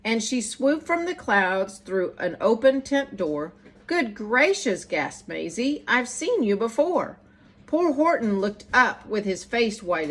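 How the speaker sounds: put-on lively rhyming read-aloud for children; bouncy, sing-song story reading; storybook narration. A narrator's reading. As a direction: read it like bedtime verse to kids. Reads picture book aloud.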